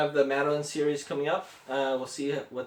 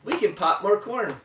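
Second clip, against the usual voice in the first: higher-pitched, perky little mouse; squeaky mouse; 6 semitones higher than usual. A narrator's reading. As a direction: soothe the bear in a small squeaky voice. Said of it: "Mouse squeaks".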